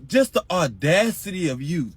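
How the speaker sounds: high, strained, outraged yelling; hurt angry outburst. Retold or imitated. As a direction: scream it out, betrayed and hurt. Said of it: "I'm like".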